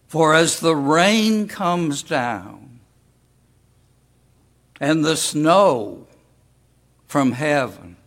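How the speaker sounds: slow, measured Bible reading; scripture reading. Acted. Preacher reads Isaiah aloud to the congregation, slow and solemn. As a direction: read the verse with weight, slowly.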